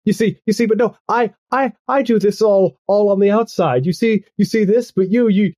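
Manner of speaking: high-pitched disbelieving babble; flustered, losing the thread. Acted. Goth girl baffled that Earl admires her, flustered. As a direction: ramble high and halting, then trail off. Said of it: "she kinda trails off 'cause she's lost train of thought".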